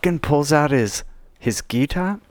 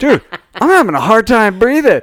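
laughing through it; 8 semitones higher, 5 dB louder than usual. Real, not acted. Retelling being smothered, laughing.

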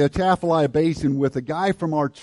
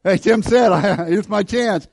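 eager mock claim; 6 semitones higher, 6 dB louder than usual. Retelling someone's eager claim.

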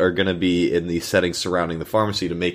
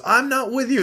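imitating the woman. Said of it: "or the woman goes".

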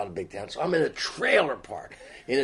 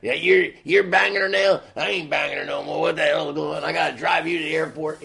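put-on seething ex-boyfriend; 3 semitones higher than usual. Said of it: "This guy is just seething".

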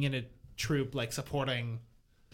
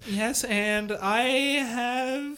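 excited; 7 semitones higher, slower than usual. Acted. Improv bit, escalating teacher voice.

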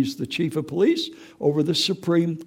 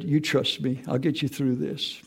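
softer, hushed divine reassurance; softly voicing God; 7 dB quieter than usual. God comforting a grieving grandfather, hushed reassurance. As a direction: let it fall to a near whisper. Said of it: "And God said".

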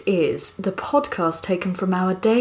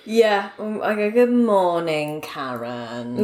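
a hint of a dull office worker; Karen voice; slower than usual. Co-host greets Karen in a mild office-worker voice. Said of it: "that's my Karen voice".

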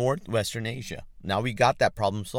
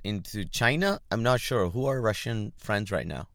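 normal talking voice

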